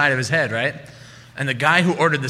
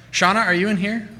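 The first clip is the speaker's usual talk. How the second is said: higher, projected call into the room; 5 semitones higher than usual. Real, not acted. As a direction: call out across the crowd. Host calls the next storyteller.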